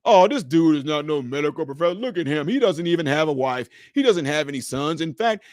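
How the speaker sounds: lightly imitated scornful onlookers; mock dismissive critics. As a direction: write him off like a sceptical crowd. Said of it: "they'd have been".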